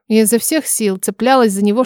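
plain reading voice

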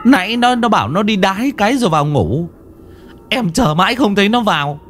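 high, panicky pleading voice; frantic husband. Acted. Husband begging the master to save his wife, high panicked. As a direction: beg for help, scared for his wife.

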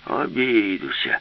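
put-on slow, drawn-out old man's grumble; mildly grumpy refusal; grumbled. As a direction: grumble it as a stubborn grandpa. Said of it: "буркнув дід".

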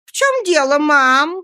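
a gossip leaning in to ask; curious passerby. Acted. Passing woman asks what happened, high nosy voice. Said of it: "спросила одна из женщин".

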